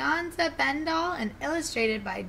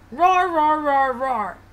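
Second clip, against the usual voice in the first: loud, raised growling roar; Dad lion's roaring demonstration; 4 semitones higher, 8 dB louder, slower than usual. Acted. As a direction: roar the word like a father lion.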